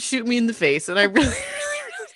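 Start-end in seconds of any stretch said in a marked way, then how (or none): 0.0-0.9 mock yell. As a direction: blurt it out as a playful outburst. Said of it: "I almost said".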